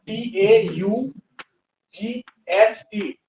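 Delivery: letter by letter, slow and deliberate; spelling out slowly. Shown as a demonstration. Teacher slowly spelling taught for the class. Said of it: "second form होता है taught".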